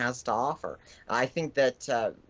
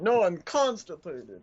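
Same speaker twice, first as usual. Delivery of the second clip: slow groaning zombie, higher and louder; 4 semitones higher, 5 dB louder, slower than usual. Acted. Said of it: "He's doing a zombie groan".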